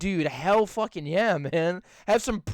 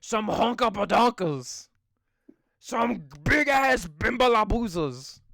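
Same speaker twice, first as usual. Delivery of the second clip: goofy slow voice; 2 semitones higher, slower than usual. Acted. Silly made-up words for breasts.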